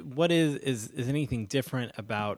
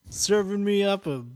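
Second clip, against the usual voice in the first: entitled customer impression; 10 semitones higher, 8 dB louder than usual. Customer bit continues.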